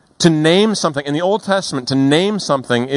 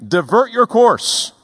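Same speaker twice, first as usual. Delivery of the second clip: imitating a commanding captain, higher, slowing on the order; navy captain; 8 semitones higher than usual. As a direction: play the captain giving a firm order over the radio. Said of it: "The U S Navy ship says".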